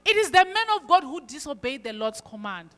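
preacher mimicking a smug verdict; mock self-righteous quote. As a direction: throw "It is the man of God who disobeyed the Lord's command" back with scorn at his nerve. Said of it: "he even has the power to say".

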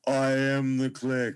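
slow, deliberate hint of a rock drummer; lightly voiced drummer impression, each word set down slowly; bad impression of a famous drummer. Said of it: "I'm doing a bad impression of a famous drummer"

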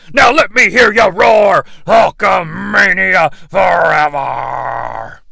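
slow roaring wrestler shout; heroic rallying shout. Acted. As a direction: roar it out to the crowd. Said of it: "Hulk Hogan seems to have invented a new catchphrase".

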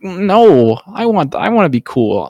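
a hammed-up whiny child begging. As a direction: pout and whine like a spoiled child. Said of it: "as a whiny child who just is like".

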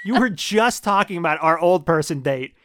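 worked-up, incredulous storytelling; indignant rant. Real, not acted. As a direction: rant loudly in disbelief. Comic indignant rant about old-person date.

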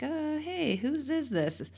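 high, soft mock-timid question; tentative asking. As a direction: gingerly imitate someone afraid of the answer. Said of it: "he's kind of asking the spirit".

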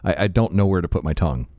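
new dentures, words a bit slurred; slurred speech. Real, not acted. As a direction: talk around new false teeth. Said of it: "I sound like I'm slurring".

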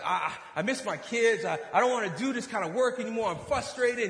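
imitating a frustrated man unloading; mad, venting. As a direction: let it all spill out, exasperated. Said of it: "And he's just mad".

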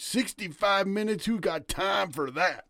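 put-on high, slow grumpy South Dakota accent; grumpy old South Dakota man. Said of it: "That's his best North Dakota accent".

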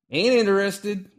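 put-on old man's curt refusal. Old man flatly refuses.

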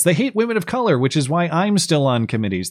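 high, mocking singsong over hate; sarcastic. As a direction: sneer the claim sarcastically. Mocking Republicans' supposed principles.

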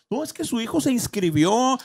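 ordinary talk

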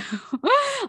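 a short, high burst of embarrassed laughter. Real, not acted. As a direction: laugh at your own slip. Laughing at own grammar slip.

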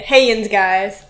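Pittsburgh greeting, drawn out. Shown as a demonstration. Cohost showing how she'd open the show, Pittsburgh accent. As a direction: say a slow Pittsburgh hello. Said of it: "'cause I'm from Pittsburgh".

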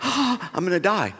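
half-laughing mock panic; laughing despair. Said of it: "I'm crumbling".

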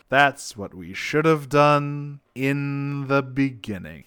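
slow, wooden line reading; lightly mocking slow wooden game dub voice; bad game voice acting. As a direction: deliver it like a stiff video game cutscene. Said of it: "some of the lines in that video to myself all the time, such as".

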